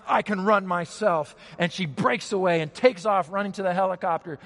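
urgent, driving narration; dramatic storytelling. A narrator's reading. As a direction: build the rush of the escape. Retells rescue, building urgency.

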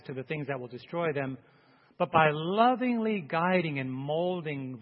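solemn, measured pastor's prayer; public prayer. Real, not acted. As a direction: lead the congregation earnestly in prayer. Leads the closing prayer.

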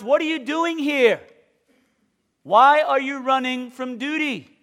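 lightly voiced divine rebuke, slowed at the end; God's rebuke. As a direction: press the runaway prophet. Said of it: "In other words".

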